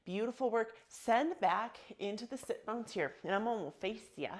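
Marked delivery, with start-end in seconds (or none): 3.2-4.3 lightly put-on cowboy twang; a hint of playful cowboy talk. Yoga teacher turning to face the class, light cowboy voice. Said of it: "that's my cowboy voice".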